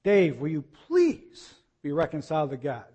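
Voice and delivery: mild imploring appeal with emphasis on please; a lightly acted personal plea; pleading request. Imitating Diane's request to Dave, mildly pleading. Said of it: "That's Diane's request".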